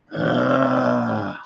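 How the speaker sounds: drawn-out sigh-groan; exasperated groan. Real, not acted. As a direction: groan wearily at the hassle. Frustrated over missing microphone.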